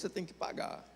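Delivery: barely breathed, no voice; voiceless aside on the lesson; whispered aside. Real, not acted. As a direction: lean in and whisper it to the congregation. Moral punchline dropped to aside.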